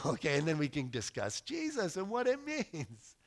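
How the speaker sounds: ordinary delivery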